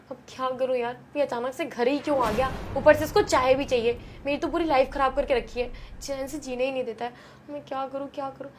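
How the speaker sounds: soft, fading panicked worry; scared hush. Acted. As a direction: fret under her breath as fear grows. Wife whispering in panic. (डर से धीमी होती घबराई आवाज़)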